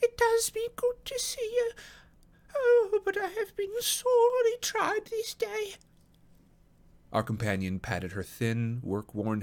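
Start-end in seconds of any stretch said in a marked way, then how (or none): 0.0-5.8 very high, distressed housekeeper; tearful old woman. A narrator's reading. Housekeeper unburdens herself to her visitor, tearful high voice. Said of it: "she cried, with a hysterical sob".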